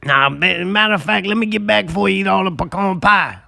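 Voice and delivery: Mike Tyson voice. Acted. Holding the Tyson impression.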